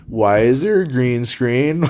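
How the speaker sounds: puzzled visitor. Retold or imitated. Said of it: "people come over here and they're like".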